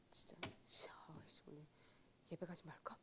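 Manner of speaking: hushed voiceless grumble; whispered temptation. Retold or imitated. Retells tempting inner voice.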